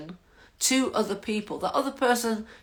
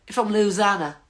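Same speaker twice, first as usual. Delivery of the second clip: attempted Louisiana accent; 2 semitones higher, 5 dB louder than usual. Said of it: "I was trying my best to sound like I was from Lu-, Louisiana".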